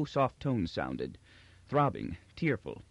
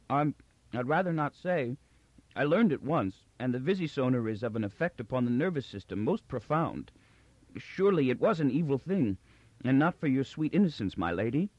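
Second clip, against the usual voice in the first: timid clown Magnifico; 3 semitones higher than usual. Acted. Magnifico's voice, held.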